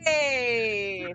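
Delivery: loud happy cheer; excited cheer. Real, not acted. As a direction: cheer the roll. Cheering the natural twenty.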